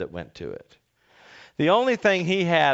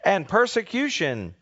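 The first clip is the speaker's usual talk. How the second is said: raised, measured reading of the Gospel; scripture reading; 4 semitones higher than usual. Acted. Pastor reading the Gospel aloud to the congregation, proclaiming.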